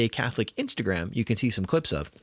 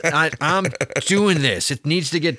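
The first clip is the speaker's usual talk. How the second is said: slowed, a bit higher and louder, mock resolve; imitating a determined mom; 4 semitones higher, 5 dB louder than usual. Mom muttering to herself while clearing silverware, determined. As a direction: play the mom who just gets it done herself. Mom's internal voice, clearing the table.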